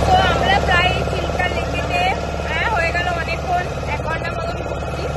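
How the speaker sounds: talking with paan in mouth; chewing paan. Real, not acted. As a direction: speak around a mouthful of paan. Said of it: "আর আমার গালে পান আছে". (মুখে পান নিয়ে কথা বলা)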